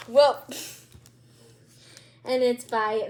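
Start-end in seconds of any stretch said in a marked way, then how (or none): 0.1-0.4 surprised. Real, not acted. Reacting to the title.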